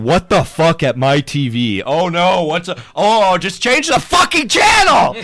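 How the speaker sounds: furious yell at the television; screaming. Retold or imitated. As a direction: yell at the TV in disbelief.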